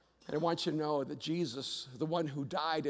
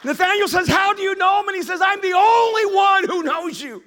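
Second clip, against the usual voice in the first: loud, high pulpit preaching; fiery sermon delivery; preaching at full force; 14 semitones higher, 16 dB louder than usual. Acted. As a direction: drive it home to the congregation. Preaching climax on Nathanael story.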